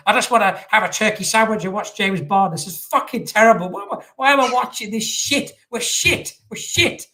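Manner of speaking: high, loud, exasperated ranting fan; Paul Goldbridge impression. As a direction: whine it like a fed-up pundit losing his mind. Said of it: "Paul Goldbridge was probably going".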